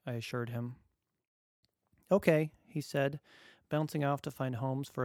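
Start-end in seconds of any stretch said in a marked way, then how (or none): 2.1-2.5 put-on bouncy little boy agreeing; child voice. Dad voices son agreeing.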